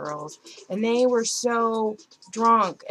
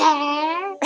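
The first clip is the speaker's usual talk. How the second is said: high, laughing words; giggling through the word; 9 semitones higher, 7 dB louder than usual. Real, not acted. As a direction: break into laughter after your own impression. Laughs after her own imitation.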